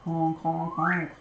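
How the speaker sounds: lightly imitated goose honks; a hint of goose, shown as a lesson. Shown as a demonstration. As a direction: honk three times like a goose. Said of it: "That's a goose".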